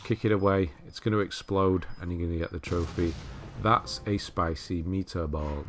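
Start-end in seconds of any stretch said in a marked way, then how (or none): 3.6-5.7 slow, drawn-out mock Italian accent; hammy, unconvincing Italian accent; terrible Italian accent. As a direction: stretch it out in a badly faked Italian accent. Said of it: "terrible Italian accent".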